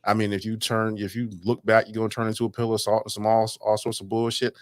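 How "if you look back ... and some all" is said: ordinary talk, nothing marked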